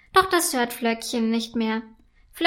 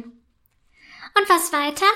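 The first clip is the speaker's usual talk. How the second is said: slow, higher drawn-out question; curious; 5 semitones higher, much slower than usual. A narrator's reading. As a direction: hang on every word. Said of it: "fragt die Eiselfe neugierig".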